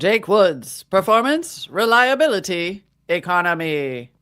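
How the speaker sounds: put-on old-time radio ad voice in mid-Atlantic accent. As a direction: read it like a thirties mid-Atlantic announcer. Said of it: "It's either mid-Atlantic ac-, accent or slightly British".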